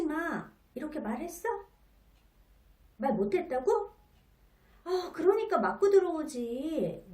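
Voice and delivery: put-on exasperated mom scolding her kid for not speaking up. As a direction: press the child accusingly, half-exasperated. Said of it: "약간은 채근하고 탓하는".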